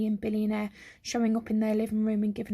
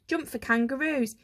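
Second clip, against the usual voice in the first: shouted slogan; 4 semitones higher than usual. Acted. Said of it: "he and his brother shouted together".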